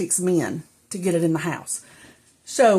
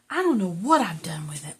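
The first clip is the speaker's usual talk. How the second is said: whisper; 2 semitones lower than usual. Real, not acted. Muttering to herself, unvoiced.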